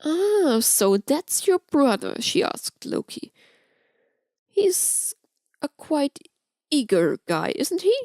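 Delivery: lightly voiced flirt sharing gossip; Amora's voice. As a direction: tease with a sly edge.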